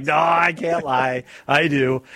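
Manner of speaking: slow, drawn-out mock admission; imitating a caller's confession. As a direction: stretch it out like a reluctant confession. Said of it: "it came out. Like".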